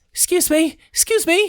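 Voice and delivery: very high, panting, out-of-breath calling. A game master voices a squire who comes running up; panting, out of breath. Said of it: "he's panting out of breath".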